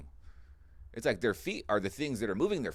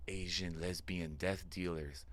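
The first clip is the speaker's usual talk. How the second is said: hushed secret; 6 semitones lower, 8 dB quieter, slower than usual. Retold or imitated. Friend whispers secret name.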